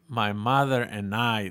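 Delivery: lento, grave, con acento del sur de California; acento sureño de California. Retold or imitated. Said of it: "con ese acento del sur de California". (imitando el acento del sur de California)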